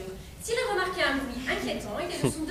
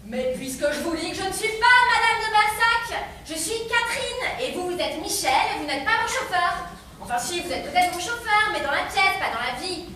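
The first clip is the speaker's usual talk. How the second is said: flustered; 3 semitones higher, 5 dB louder than usual. Acted. Flustered insisting, loud.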